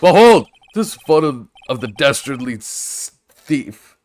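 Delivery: running out of breath mid-line; breathless, air running out at the end. Real, not acted. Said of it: "I ran out of breath".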